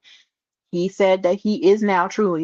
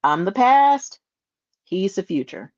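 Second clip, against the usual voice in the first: quoting Brock. Retold or imitated. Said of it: "gets a microphone and says".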